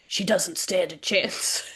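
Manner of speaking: rough gravelly shout, slow. Acted. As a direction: growl it through gravel. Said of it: "gave her that really gravelly voice".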